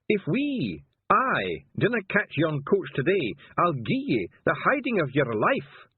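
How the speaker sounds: a loud, high Scots threat with a growl, slowed down; a gruff Feegle threat. Acted. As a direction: menace the carter in a high Scots voice. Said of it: "growled the passenger".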